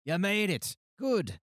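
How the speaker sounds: high bright welcome, then rushing; eager guild leader. Acted. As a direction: greet them like a relieved boss. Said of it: "he looks up and he goes".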